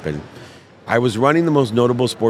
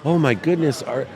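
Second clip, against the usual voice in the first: concerned mother; 5 semitones higher than usual. Retold or imitated. Acts out concerned mother's reply.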